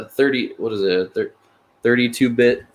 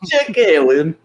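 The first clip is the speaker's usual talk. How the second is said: put-on higher-pitched, laughing Russian accent; amused, hammed-up Russian accent; mock Russian accent; 5 semitones higher, 3 dB louder, slower than usual. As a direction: mimic the Russian-sounding name while laughing. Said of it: "Alex's Russian accent when he said Jake Allen".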